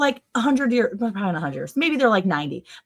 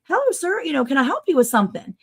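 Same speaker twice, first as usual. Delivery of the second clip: lightly voiced polite son, pitched up; higher, courteous customer-service greeting; helpful store worker; 6 semitones higher than usual. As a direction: imitate a helpful young employee. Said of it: "my son, who works there".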